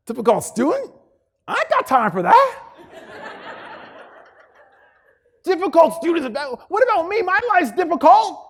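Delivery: high, loud whiny complaint; mock self-pitying job candidate, hammed up; complaining applicant. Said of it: "some variation of the following".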